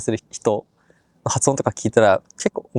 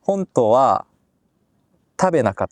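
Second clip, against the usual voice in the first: halting Japanese with a slight Korean accent; slower than usual. Shown as a demonstration. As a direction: attempt a beginner's Korean-accented Japanese, word by word. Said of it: "ちょっと韓国語っぽいです".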